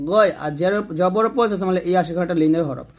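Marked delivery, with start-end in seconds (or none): 0.1-0.3 "গয়" with a thick throaty gh; heavy ghain. Shown as a demonstration. Teacher showing the thick letter, heavy gh in "গয়". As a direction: make the gh of "গয়" full and heavy. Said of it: "এরকম".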